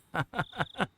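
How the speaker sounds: high, light amused giggle; a coy little laugh; teasing laugh. Acted. A woman giggling at the kids caught sneaking.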